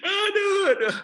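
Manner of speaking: loud sigh-cry. Real, not acted.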